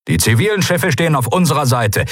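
high-pitched announcement to the fleet, brisker take; commander's broadcast, first statement; radio announcement. A narrator's reading. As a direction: announce the news to every ship. First take of repeated radio message.

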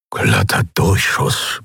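tonlos und langsam gemurmelt, ungläubig; fast nur gehaucht, langsam. A narrator's reading. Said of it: "murmelte er". (Keru murmelt nach dem Einschlag vor sich hin, leise und ungläubig)

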